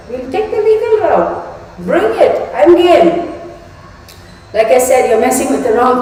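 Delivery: telling off a troll, voice climbing; heated rant. Real, not acted. Angry rant at commenter.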